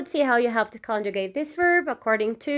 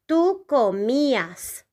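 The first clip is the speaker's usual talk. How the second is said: slow model pronunciation; 3 semitones higher than usual. Shown as a demonstration. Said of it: "the conjugation will be".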